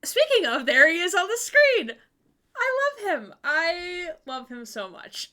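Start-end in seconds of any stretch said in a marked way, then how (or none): 2.6-5.3 gushing fan squeal; fangirling. Real, not acted. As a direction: swoon over him, breathless. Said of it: "stop fangirling over him now".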